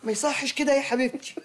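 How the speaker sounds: gentle scolding. Acted. Aunt reproves a young woman for rude talk, scolding. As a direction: chide her like an offended auntie.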